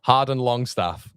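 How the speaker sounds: name drawn out slowly with a German twang; lightly put-on German accent. Shown as a demonstration. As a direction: give the name a slow, playful German lilt. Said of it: "have a German twang on it".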